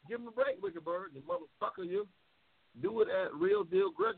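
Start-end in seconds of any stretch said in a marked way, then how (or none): 0.1-2.1 whiny mock voice. Mimicking whiny request, high pitch.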